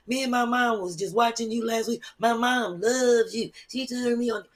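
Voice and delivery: mock fangirl gushing; gushing fan. Acting out gushing fans on phone.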